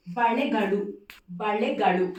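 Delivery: బళెగడు loudly, both l sounds as ళ; firm, careful model of బళెగడు; two retroflex ళ sounds. Shown as a demonstration. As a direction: curl the tongue back twice in బళెగడు. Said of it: "రెండు అలాలు పలకాలి".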